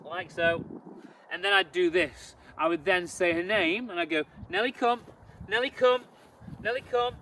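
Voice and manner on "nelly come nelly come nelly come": recall command. Shown as a demonstration. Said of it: "I'll do it like this so you can see".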